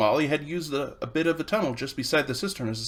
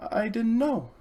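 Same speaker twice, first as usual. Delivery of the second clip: humbly; 8 semitones higher than usual. Acted. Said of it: "said Polly humbly".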